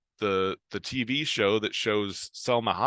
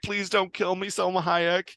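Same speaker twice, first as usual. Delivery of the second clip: high, pleading squeal; a hammed-up beg for mercy, pitched way up; mock terrified plea; 9 semitones higher than usual. Joan begs the intruding Salma Hayek, high and mock-scared. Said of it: "she freaks out".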